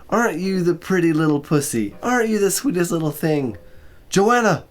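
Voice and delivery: put-on high, sweet baby-talk cooing; woman cooing to her cat; cooing to a pet. A narrator's reading. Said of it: "cooing the silly words that women address to their pets".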